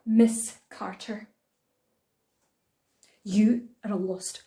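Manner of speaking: loud, emphatic scolding; a dressing-down, each phrase hit hard; indignant teacher. A narrator's reading. Teacher scolding Miss Carter before the class, loudly indignant. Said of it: "large, dramatic intake of breath".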